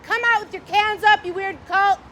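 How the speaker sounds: a hint of a commanding cop voice; mock authority. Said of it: "He said".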